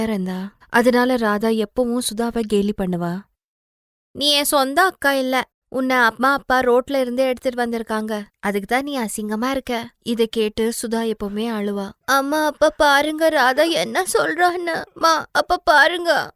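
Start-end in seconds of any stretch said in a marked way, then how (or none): 4.1-9.9 put-on slightly higher teasing girl's voice; mocking little sister. Younger sister mocks Sudha. 12.0-16.3 put-on higher, tearful girl complaining; whining child. Crying child complains to parents.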